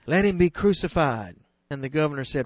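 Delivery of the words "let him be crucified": raised cry of the mob; crowd crying out. Acted. Preacher voicing the crowd's demand, raised. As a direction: call for the execution, firm and raised. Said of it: "And they all cried".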